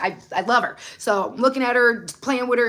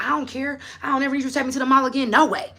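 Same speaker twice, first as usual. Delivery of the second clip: fast, higher imitation of a sulking kid; mock tantrum, quick and a bit higher; mad child; 4 semitones higher, faster than usual. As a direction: rattle it off fast like a furious nine-year-old. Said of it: "I was so mad in my room".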